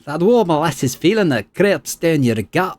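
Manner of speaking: slow, ominous archaic voice; brooding spirit. Acted. Spirit answers the player's question, slow and ominous. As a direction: savour each dark image. Isilmir voice.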